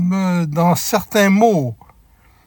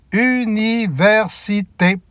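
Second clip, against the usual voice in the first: slow syllable demo; 4 semitones higher, slower than usual. Shown as a demonstration. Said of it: "Combien y a-t-il de syllabes".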